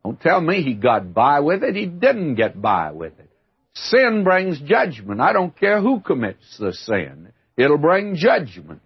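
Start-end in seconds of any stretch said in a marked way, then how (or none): 3.7-5.2 slow, higher, every word weighted; solemn warning. Real, not acted. Preacher warning his listeners, slow and weighty. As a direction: pronounce the verdict slowly.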